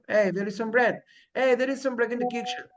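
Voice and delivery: bread and kitchen said falling, a casual statement; falling statement tune. Shown as a demonstration. Teacher showing the affirmative as everyday talk, falling. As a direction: tell it, don't ask it. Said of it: "Sonó como pregunta".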